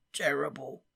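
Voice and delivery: a gruff one-word grunt from the drowsy giant. Acted. Hagrid grunting as he drifts off to sleep. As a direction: grunt it, half asleep. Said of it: "Hagrid grunted".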